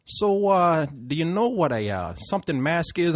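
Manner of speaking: slow, hesitant Puerto Rican cabbie impression; amateur Puerto Rican accent, feeling out the listener; bad Puerto Rican accent. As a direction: fumble for words in a rough Puerto Rican accent. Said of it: "I'm gonna do it bad accent".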